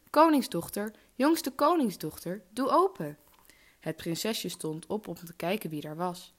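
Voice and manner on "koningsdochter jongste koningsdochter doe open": high, loud sing-out call. A narrator's reading. Frog knocking at the princess's door, calling out. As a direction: call up loudly through a closed door. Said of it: "klopte het op de deur en riep".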